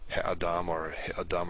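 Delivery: shortened vowel in he-adam; reduced he-adam. Shown as a demonstration. Teacher showing the reduced he-adam. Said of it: "or just really make it short".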